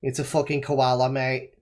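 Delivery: mock Aussie accent; Australian accent. Guessing what the koala show is, mock Australian accent. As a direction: put on a rough Australian accent. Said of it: "not to do an Australian accent again".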